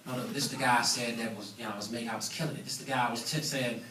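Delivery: low, soft mock backtracking; hushed, hasty correction, played for laughs; sheepish backpedaling, imitated. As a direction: imitate someone caught out, mumbling excuses under their breath. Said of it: "and now you're like".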